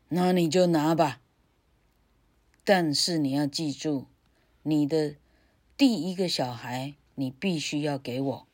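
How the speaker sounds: loud harsh witch. Acted. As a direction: command it like a witch. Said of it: "女巫说".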